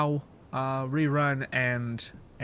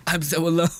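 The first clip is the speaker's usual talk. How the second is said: hammed-up lonely wail, a little louder; mock self-pity; 4 dB louder than usual. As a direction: playfully imitate a woe-is-me victim. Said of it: "they're like".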